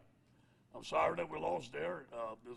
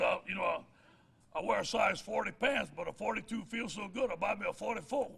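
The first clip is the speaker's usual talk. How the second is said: folksy uncle voice, a bit higher and louder; uncle's saying; 4 semitones higher, 5 dB louder than usual. Retold or imitated. Coach quoting his uncle's joke about pants, folksy. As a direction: tell it like old Uncle Pish. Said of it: "My Uncle Pish said".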